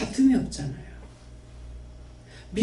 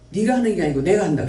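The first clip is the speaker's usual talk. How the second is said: quoted inner voice, brisk; faster than usual. Retold or imitated. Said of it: "그랬어요".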